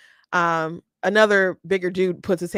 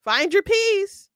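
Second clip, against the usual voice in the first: mock soothing; 6 semitones higher, slower than usual. Panel mock-soothing Zoe, slow and high. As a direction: coo it like a fake therapist. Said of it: "doesn't go".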